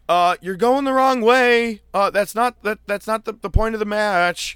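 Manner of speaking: mocking crowd. Crowd mocking wrestlers going the wrong way, high and loud. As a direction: talk down to confused wrestlers in a high voice.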